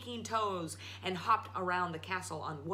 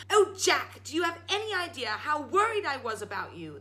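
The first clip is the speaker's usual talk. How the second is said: high, louder worried outburst; relieved scolding yell; 7 semitones higher, 6 dB louder than usual. Acted. Mother yelling at her son, relieved. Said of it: "the widow yelled".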